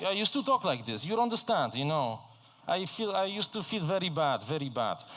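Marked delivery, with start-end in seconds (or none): 0.0-2.2 put-on thick Eastern European accent, higher pitched; imitating his old Eastern European English; mock Eastern European accent. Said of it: "You have this very Eastern European accent". 2.7-4.4 put-on heavy Eastern European accent, higher and strained; mock Eastern European accent. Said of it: "You have this very Eastern European accent".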